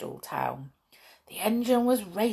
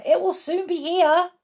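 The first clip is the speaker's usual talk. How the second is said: high, louder announcement; excited cry; 11 semitones higher, 5 dB louder than usual. A narrator's reading. Onlooker awaiting the train, high excited cry. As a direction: call it out eagerly. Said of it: "cried someone".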